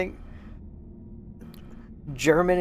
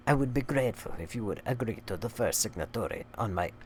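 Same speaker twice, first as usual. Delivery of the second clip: soft, measured put-on reading voice; hushed mock-formal letter reading; letter read aloud; 4 semitones lower, 5 dB quieter than usual. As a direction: read the letter out in character, fairly low-key. Resumes the letter.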